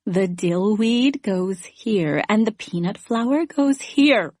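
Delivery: a hint of a slow, creepy Lecter drawl; lightly voiced menace, slow and deliberate; Hannibal Lecter-like. Roommate recalled, tired from night school, a touch of Lecter menace. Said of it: "her voice all Hannibal Lecter-like".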